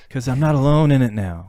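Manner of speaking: a relieved laugh breaking in. Real, not acted.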